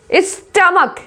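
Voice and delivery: स्टमक ending in a hard k; model pronunciation. Shown as a demonstration. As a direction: say स्टमक as stum-uk, h silent. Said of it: "इस तरीके से pronounce करते हैं".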